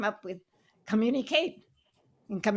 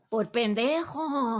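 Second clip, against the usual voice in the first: mock heckle; slower than usual. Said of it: "somebody in the audience yells out".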